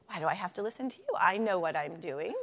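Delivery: dismissive, self-assured slug; mildly haughty know-it-all; smug slug. Acted. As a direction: brush off the advice smugly. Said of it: "what does it mean to be smug".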